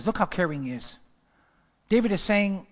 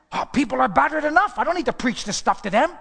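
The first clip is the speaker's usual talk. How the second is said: mock quote; 5 semitones higher, 4 dB louder than usual. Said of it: "Joel Osteen said".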